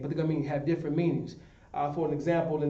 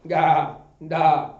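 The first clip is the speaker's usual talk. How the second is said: letters called out loud like a bleating sheep; 7 dB louder, much slower than usual. Shown as a demonstration. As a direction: bleat the syllables like a lost sheep. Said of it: "what a sheep sounds and how he sounds".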